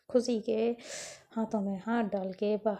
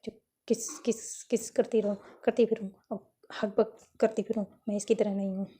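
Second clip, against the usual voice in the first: panicked stammer. Acted. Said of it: "एकदम घबरा जाती है".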